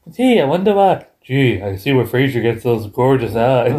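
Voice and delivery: drawn-out mock American accent. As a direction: imitate someone attempting an American accent. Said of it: "does a really good American accent".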